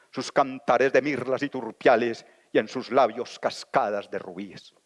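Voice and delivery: solemn recited verse, rising on key words; grand poetry declamation. Shown as a demonstration. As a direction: declaim like a carnival poet. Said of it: "Dedico estas estrofas que así las declamó".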